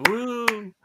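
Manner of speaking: high-pitched "woo" of celebration; cheering woo. Real, not acted. Co-host cheers the new backers, high celebratory woo. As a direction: let out a high celebratory whoop.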